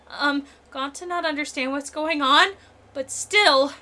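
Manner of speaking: high, earnest pleading giant; gentle giant voice. Acted. Voices Gonta pleading innocence.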